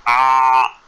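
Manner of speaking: imitated chick's begging "ah"; drawn-out "ah" like a mouth held open for food. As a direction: chick waiting to be fed, mock open-mouthed "ah". Chick opens up to be fed.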